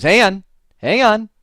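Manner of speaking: high, loud mock alarm; retold alarm. Technician unplugging cables on the phone, loudly alarmed. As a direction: imitate someone suddenly startled by a discovery.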